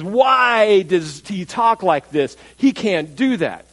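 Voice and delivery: drawn-out, slow mock indignation; indignant questioning. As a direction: act out scribes objecting, stretching the words. Scribes' indignant thoughts acted out.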